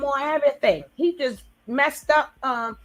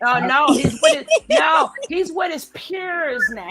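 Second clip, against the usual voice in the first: excited exclamation; 6 semitones higher, 5 dB louder than usual. Real, not acted. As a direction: voice jumps up, emphatic. Excited reaction to gangster comment.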